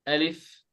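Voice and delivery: slow, careful alif; correct alif. Shown as a demonstration. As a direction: say alif slowly with a clear Arabic a. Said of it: "It's alif".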